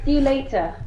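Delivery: "See you later" with no R on LATER; non-rhotic ending. Shown as a demonstration. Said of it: "it's supposed to be".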